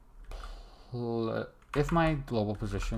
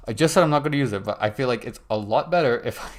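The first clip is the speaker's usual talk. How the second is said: laughing excitement; 2 semitones higher, 8 dB louder than usual. Real, not acted. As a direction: burst out at yourself for breaking the rule. Caught breaking her own rule.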